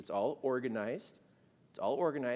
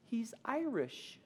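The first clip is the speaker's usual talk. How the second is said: high, drawn-out tearful squeak; slow, high mock-weepy voice; retold tearful wife; 9 semitones higher, slower than usual. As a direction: imitate wife choked with happy tears. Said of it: "tears streaming down her face".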